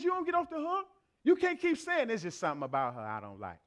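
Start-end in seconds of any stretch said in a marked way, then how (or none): 2.1-3.6 catty woman. Retold or imitated. Mocking women's catty talk.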